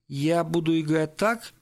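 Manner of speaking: slow, hesitant question; unsure. Acted. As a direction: feel your way slowly through the question. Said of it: "неуверенно сказал он". (неуверенно, медленно)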